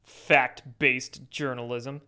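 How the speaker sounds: slow mocking repeat; sarcastic echo. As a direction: scoff at the phrase, slowly.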